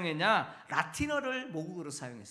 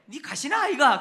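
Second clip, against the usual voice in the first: put-on playful Gyeongsang accent, raised and punchy; Busan dialect; 6 semitones higher, 7 dB louder than usual. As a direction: toss it off like a Busan local teasing. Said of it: "저기 부산 지역의 말이".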